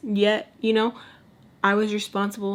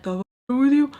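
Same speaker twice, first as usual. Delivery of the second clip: higher, louder exasperated what the f; the adult self snapping at her younger self; grown-up outrage; 6 semitones higher, 6 dB louder, faster than usual. Pretend. Grown Lex scolding her younger self, higher and louder in outrage. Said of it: "Grown Lex is like".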